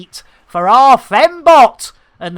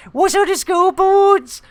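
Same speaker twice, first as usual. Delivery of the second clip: high, lilting mock Welsh; hammed-up Welsh lilt; terrible Welsh accent; 9 semitones higher than usual. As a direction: put on a bad Welsh accent, pitched up. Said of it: "that was terrible Welsh accent".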